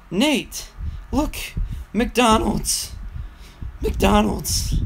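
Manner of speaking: put-on high, eager drunk friend; excited drunk voice. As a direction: imitate an excited drunk buddy. Drunk coworker excited about McDonald's.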